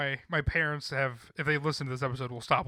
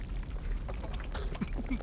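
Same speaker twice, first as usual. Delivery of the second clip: glitchy giggling ghost whisper; 7 dB quieter than usual. Pretend. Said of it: "I'm gonna insert a Ghost Voice there".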